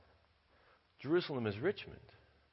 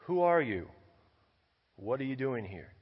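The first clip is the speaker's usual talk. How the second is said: sharp shouted challenge, louder and higher; guard's challenge; 3 semitones higher, 5 dB louder than usual. Retold or imitated. Guard calls down to a lost rabbi, shouting. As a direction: bark it out like a wall guard at dusk. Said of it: "he hears this voice".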